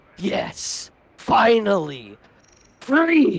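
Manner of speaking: big, grand, declaiming announcer-style call. Narrating a giant spaceship calling out, in a deafening booming voice. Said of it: "in a deafening, uh, booming voice".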